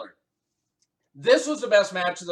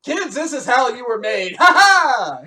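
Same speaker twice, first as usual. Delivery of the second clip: high, loud helium squeak; 5 semitones higher, 10 dB louder than usual. Acted. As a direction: laugh it out like inhaled helium. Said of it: "You're still doing the helium voice".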